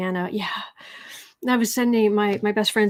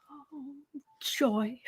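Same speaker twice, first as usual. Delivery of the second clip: sarcastic; 4 semitones higher, 7 dB quieter than usual. Real, not acted. Sarcastic reaction to the topic.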